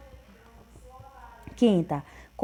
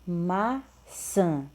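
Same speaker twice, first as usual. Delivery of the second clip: slow and drawn out; much slower than usual. Shown as a demonstration. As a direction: say "a palavra maçã" slowly for children. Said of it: "E por último". ("a palavra maçã" bem devagar, para as crianças)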